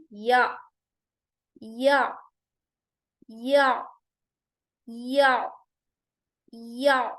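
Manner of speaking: یا with a gentle ain stop in the mid throat; soft throat stop. Shown as a demonstration. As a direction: ease into the ain after یا, no jolt. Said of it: "نرمی کے ساتھ صرف ہم یا کے بعد عین کو حلق کے اوپر لا کر سٹاپ کر رہے ہیں".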